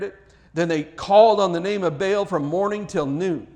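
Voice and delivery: measured, solemn reading of a Bible passage; steady, earnest scripture reading. A narrator's reading. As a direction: read it like the lesson from the pulpit.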